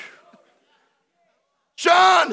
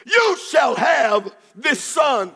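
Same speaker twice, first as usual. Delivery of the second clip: slow shouted promise; 5 semitones higher, much slower than usual. Acted. Preacher declaring the angel's promise.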